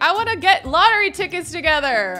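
imitating eager friend. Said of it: "our friend's like".

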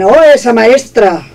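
lightly put-on accent from Spain; Spanish-from-Spain accent. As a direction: exclaim it in a Castilian Spanish accent. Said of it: "Ahí ya estoy hablando como española".

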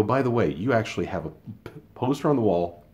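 spring the punchline on him; gleeful gotcha. Retold or imitated. Retold gotcha to a coworker about his own poster, triumphant.

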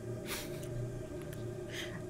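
quiet laugh, nearly all breath; soft breathy laugh. Real, not acted. Gamer amused by failing to say water, soft laugh. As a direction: laugh softly at your own slip. Laughing at own failed pronunciation.

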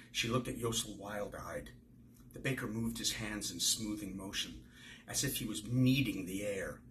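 steady, clear reading voice carrying each character; story narration. A narrator's reading. Author reading a passage of his novel to the interviewer, in story narration.

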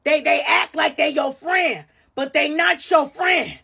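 put-on drunk girl voice. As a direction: gush like a tipsy friend. Drunk girl advice in bathroom.

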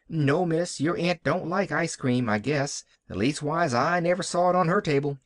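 lightly voiced country maid; Nancy. Nancy answers with amused look.

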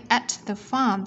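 THE with the tongue pushed forward for TH; "at the farm" with a careful TH. Shown as a demonstration. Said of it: "T H chúng ta đẩy lưỡi".

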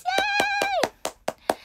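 drawn-out high squeal; excited cheer. Acted. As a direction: stretch the yay out high.

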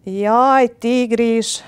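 loud, high wail of dismay; put-on woeful cry; mock-sorrowful lament. A narrator's reading. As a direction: lament dramatically to the tiger. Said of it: "kezdte Nyuszi szomorú ábrázattal".

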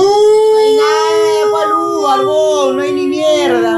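high wailing protest shout; anguished shout. Real, not acted. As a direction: cry it out in outrage at the screen. Protesta a gritos un gol anulado. (grito desesperado)

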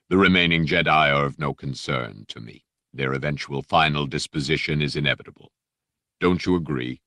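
lightly voiced Dark Lord; silky menacing Vader. Vader dismissing the Jedi, silky and menacing. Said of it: "that silky, menacing voice".

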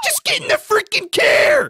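high, loud exasperated shout; angry yell. Acted. Ordering someone into the car, angry yell. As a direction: yell it at the top of the voice.

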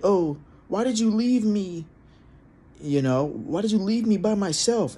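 high, slow, whiny mock of the girlfriend; whiny girlfriend imitation. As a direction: pout it out, mocking how needy she sounded. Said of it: "she's like".

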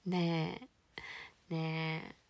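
loud plea to a dad who sympathizes. Real, not acted. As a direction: beg him not to agree, loudly. Pleading reply to father's comment.

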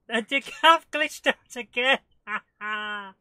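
loud, high, laughing outburst; helpless laughing. Real, not acted. Player amused by a game glitch, laughing loudly. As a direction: laugh right through the words.

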